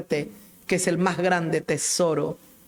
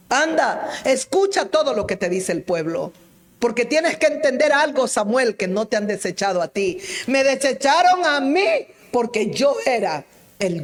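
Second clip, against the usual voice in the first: God speaking; 6 semitones higher, 4 dB louder than usual. Retold or imitated. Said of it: "Y Dios le dijo a Samuel".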